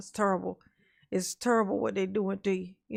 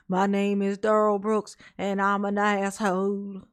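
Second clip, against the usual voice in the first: lightly mocking support-group introduction; slow, mock confession to a self-help meeting; Daryl Brooks; slower than usual.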